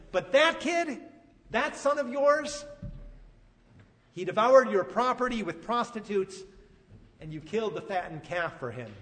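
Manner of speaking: resentful son berating his father, half-acted anger; angry yelling son. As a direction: hurl the grievances at your father. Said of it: "berating his father and yelling".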